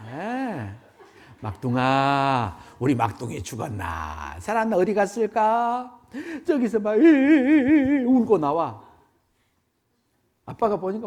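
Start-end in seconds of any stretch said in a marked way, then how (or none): 1.4-6.0 gentle searching. Acted. Father gently seeking the child. 6.5-8.8 high, loud whimpering; mock sobbing. Preacher telling the story, acting the youngest coming out in mock sobs. Child comes out crying.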